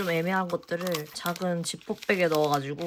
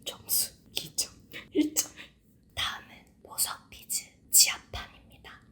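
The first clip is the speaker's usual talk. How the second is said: soft unvoiced ASMR whisper; 13 dB quieter than usual. Real, not acted. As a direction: whisper close to the mic. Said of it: "에이에스엠알로 하나하나 소리랑 자막으로만".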